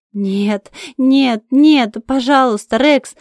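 grieving owner crying out her dog's name; anguished scream. Acted. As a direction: scream no at the news. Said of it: "кричу я".

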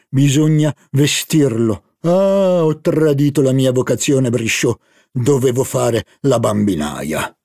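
joking about his vocation as nanny; fussy baron. Acted. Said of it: "Charlus manifestò". (barone scherzoso e un po' più forte)

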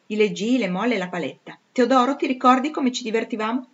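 mock the old governesses with relish; a spoiled noblewoman laughing at her tutors; haughty young lady. Blanche's lively reminiscence.

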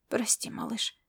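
put-on whispered apology to the girl. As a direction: breathe it out through tears. Weeping man answers softly.

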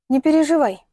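reassuring. A narrator's reading. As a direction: soothe a worried boyfriend. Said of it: "успокоила его Соня". (успокаивающе, выше и громче)

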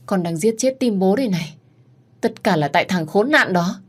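high, wailing grief; anguished lament. Acted. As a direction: cry out in despair. Father despairs over mad daughter. (người cha đau khổ than khóc)

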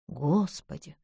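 тихий испуганный шёпот; выдохни «Господи!» почти беззвучно; шёпотом. Acted. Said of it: "прошептала Бесс". (Бесс шепчет подругам в испуге: тихо)

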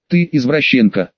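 ordinary delivery

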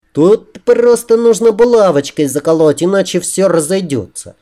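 high female character voice; fussing woman. A narrator's reading. She justifies the pins while dressing him, high and fussy.

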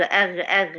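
أغ scraped from the back of the tongue; wrong غ. Shown as a demonstration. Teacher repeats the common mistake. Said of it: "هي مش أغ خالص".

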